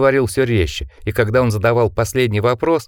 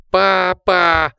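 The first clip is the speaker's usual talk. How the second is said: much higher, louder scream; terrified cry; 9 semitones higher, 3 dB louder than usual. Acted. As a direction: cry out in horror. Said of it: "с ужасом прокричал Ричард". (крик ужаса)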